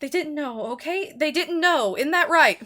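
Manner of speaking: high, loud, desperate soothing; frantic mother comforting a screaming child; pleading mother. Acted. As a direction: beg the child to calm down. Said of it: "She says".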